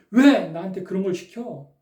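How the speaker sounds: mildly acted flare of irritation; retold angry outburst. Usually placid pastor turning on his wife over a small request, mildly mock-angry. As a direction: snap lightly on the first word, as if suddenly cross. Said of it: "갑자기 화를 내면서".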